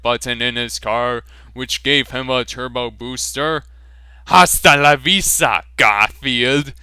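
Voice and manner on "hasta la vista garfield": mock relieved farewell. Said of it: "with relief".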